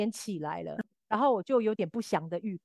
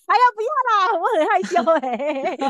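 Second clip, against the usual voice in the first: coy refusal; 7 semitones higher, 6 dB louder than usual. Retold or imitated. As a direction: play it shy and cutesy to dodge a hug. Acting her own coy refusal.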